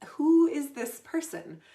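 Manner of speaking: loud rhetorical question; emphatic challenge. Real, not acted. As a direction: throw the question out hard. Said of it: "rhetorical challenge".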